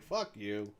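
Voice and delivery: a private muttered curse; inner voice. Retold or imitated. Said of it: "but in my head, I'm like".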